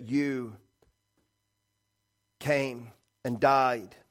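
measured prayer with long pauses; closing prayer. Real, not acted. Preacher thanking God for saving us, measured prayer. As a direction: pray gently, pausing between phrases.

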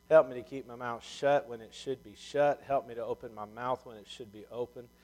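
earnest, softening pastor's prayer. Acted. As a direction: pray humbly to God for the congregation. Opening prayer.

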